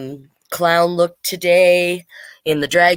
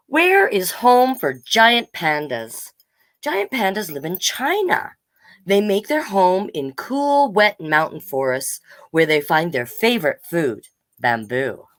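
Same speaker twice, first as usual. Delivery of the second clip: put-on reading to children. Reads the book aloud to kids.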